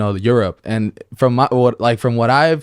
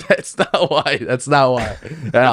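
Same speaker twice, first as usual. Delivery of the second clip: laughing; slower than usual. Real, not acted. Laughing denial of the accusation.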